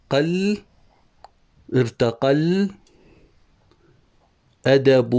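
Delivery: "قل" with qaf joined to a held lam; linked sounds. Shown as a demonstration. Teacher joining the qaf to the lam, drawn-out sounding. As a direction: draw out "قل" and the final vowel of "أدب". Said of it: "هنا القاف أصلها باللام".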